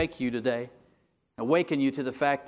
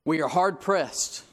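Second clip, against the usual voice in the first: slow, heavy quote; slower than usual. Retold or imitated. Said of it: "he says it this way".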